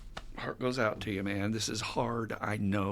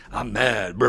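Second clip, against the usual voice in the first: put-on childlike mad; 6 dB louder than usual. Acting a child expressing feelings.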